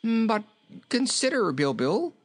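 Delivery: high, pleading king; high-pitched coaxing protest; remonstrating. A narrator's reading. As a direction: plead with a stubborn goat in a high voice. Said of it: "remonstrated the king".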